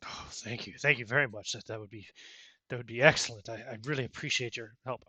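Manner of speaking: put-on light Cockney accent on a woman's voice; a woman played lightly in Cockney. GM voicing the Cockney constable thanking the investigators, light Cockney accent. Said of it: "just with a, a Cockney accent".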